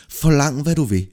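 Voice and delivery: glad king, high and loud; delighted, generous proclamation; joyful offer. Acted. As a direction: offer it grandly, voice lifted. Glad king offers Peter any reward.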